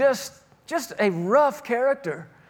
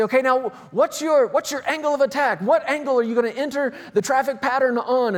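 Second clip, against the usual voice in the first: imitated Indian-accented flight instructor, slightly raised pitch; thick Indian accent; 3 semitones higher than usual. Instructor quizzing student pilot over headphones, in imitated Indian accent. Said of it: "yelling at you in this thick Indian dialect".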